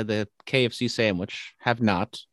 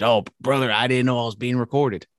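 lightly voiced wrestler making excuses; a loose Southern-tinged wrestler voice; Hulk Hogan. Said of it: "Hulk Hogan, uh, argument".

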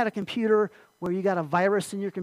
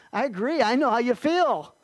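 laughing agreement; 3 semitones higher, 3 dB louder than usual. Retold or imitated. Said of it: "And I'm like".

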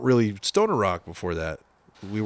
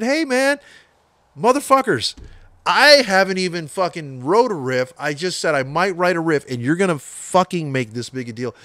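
much higher and louder, yelling, fading towards the end; furious retold shout; 8 semitones higher, 5 dB louder than usual. Yelling back at bandmates in the meeting, furious. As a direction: blast them like you're fed up. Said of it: "I was so fucking pissed".

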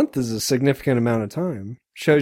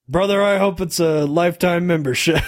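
Hulk; 4 semitones higher than usual. Retold or imitated. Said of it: "And Hulk goes".

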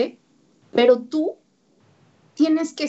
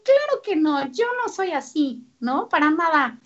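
higher mock denial; denying parent; 4 semitones higher than usual. Parent denying to the therapist, raised mock protest. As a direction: play the parent insisting it's not them. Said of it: "Me dicen".

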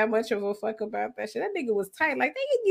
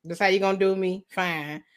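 resigned to God; 5 semitones lower than usual. Pretend. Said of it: "Just be like".

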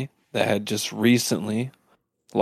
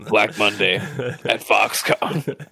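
laughing; slower than usual. Real, not acted. Joke through laughter.

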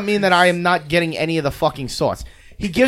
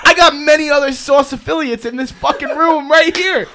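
higher, laughing mock outrage; 5 semitones higher than usual. Real, not acted. Host laughing while mocking the sauce boss claim. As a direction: rant while cracking up.

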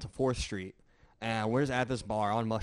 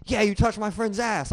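lightly voiced accuser, pitched up; accusing woman; 8 semitones higher than usual. Woman accusing a man of groping her friend, indignant. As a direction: imitate an indignant woman, higher.

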